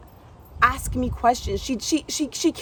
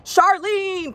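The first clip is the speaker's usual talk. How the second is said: high, whiny wail of the owner's name; mock crying call; 10 semitones higher, 4 dB louder than usual. Girl crying to the gym owner, mock tearful call. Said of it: "she's crying".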